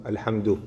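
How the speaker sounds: "الحمد" broken off alone; cut mid-phrase. Shown as a demonstration. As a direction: stop abruptly after "الحمد". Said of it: "فجأة قطع في وسط الكلمة". (قطع مفاجئ عند "الحمد")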